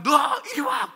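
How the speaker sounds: high, loud barked order; sharp summons. Retold or imitated. Pastor catching him at the sauna, loud sharp summons. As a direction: call him over like a caught truant.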